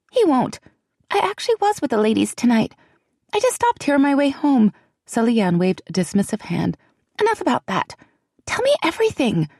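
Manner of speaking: put-on high, hushed and anxious young woman; a nervous friend fretting in a half whisper; frightened young woman. A narrator's reading. Celianne dismissive, eager.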